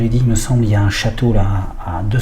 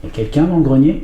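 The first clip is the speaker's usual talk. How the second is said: higher, raised call upstairs; 5 semitones higher than usual. Real, not acted. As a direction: call up to the attic. Calling up to the attic.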